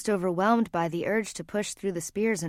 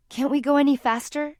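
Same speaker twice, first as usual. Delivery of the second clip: urgent plea, higher and louder; pleading; 7 semitones higher, 5 dB louder than usual. A narrator's reading. Laurel begging the driver to hurry, pleading. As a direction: plead anxiously for more speed. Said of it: "she pleaded".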